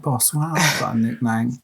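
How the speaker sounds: squeaky voice. Retold or imitated. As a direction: pipe it up like an eager young player. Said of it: "he's got a squeaky voice".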